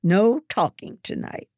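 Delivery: high, loud stern commands; strict house mother giving orders. A narrator's reading. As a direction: lay down the law to the girls. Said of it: "Mother orders".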